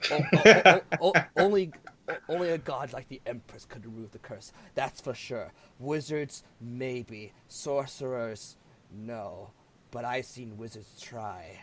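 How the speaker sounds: lightly voiced stammering old sage; a hint of an old sage stammering; stuttering old NPC. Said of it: "It's like".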